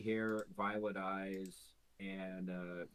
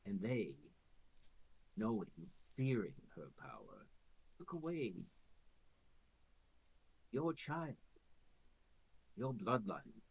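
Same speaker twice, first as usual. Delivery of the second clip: sinister creature. Acted. Quasit revealing the truth.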